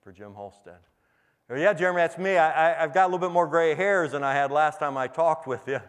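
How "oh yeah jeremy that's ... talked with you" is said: higher, louder retold greeting; animated greeting. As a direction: greet an old pupil loudly, pitched up. Replays greeting his former pupil.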